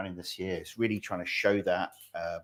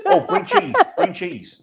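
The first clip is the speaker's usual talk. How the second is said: yelling across the room; 8 dB louder, much slower than usual. Real, not acted. Calling to the team.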